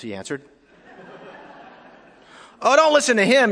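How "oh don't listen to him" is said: high, loud yell of exasperation. Acted. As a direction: yell it over the driver, as in a joke. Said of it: "yelled a woman in the passenger seat".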